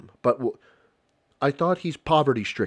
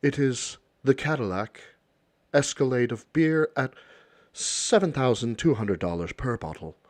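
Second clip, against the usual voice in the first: a lightly put-on posh butler, slowed and drawn out; snooty butler; slower than usual. Hinting at a butler who offers pricey beer to the millionaires, mild mock grandeur. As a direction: offer the beer like a fawning servant. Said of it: "They don't need it to be this high fucking".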